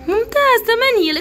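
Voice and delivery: loud, high burst of praise; excited praise. Real, not acted. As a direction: praise the pupil with real lift. Praising pupil's correct answer.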